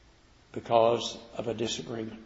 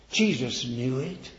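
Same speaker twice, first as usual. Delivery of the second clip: ordinary talk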